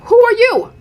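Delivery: high, loud indignant who-are-you. Pretend. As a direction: scoff as if she's nobody to you. Dismissing Ashley again.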